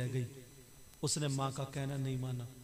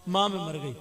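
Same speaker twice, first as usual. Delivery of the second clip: crying for help; 4 dB louder than usual. Acted. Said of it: "अब ये चीखने लगी".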